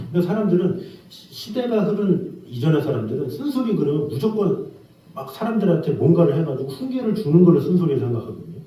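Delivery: ordinary talk, nothing marked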